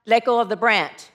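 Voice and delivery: low, calm God voice; booming voice of God. Acted. God instructs the hanging hiker, low voice. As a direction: give the order low and evenly. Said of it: "it's a booming voice".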